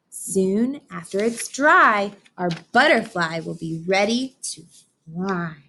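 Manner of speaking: put-on gentle storybook narration for kids; picture book reading. A narrator's reading. Teacher reading to her class, storybook voice. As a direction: read it like story time on the rug.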